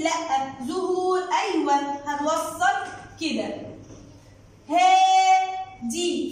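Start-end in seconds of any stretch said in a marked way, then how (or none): 4.7-6.3 slow, loud "haaadi" for هادي; long vowel. Shown as a demonstration. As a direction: hold the "aa" in هادي. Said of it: "فيها مد واو؟". (مدّ الألف في هادي)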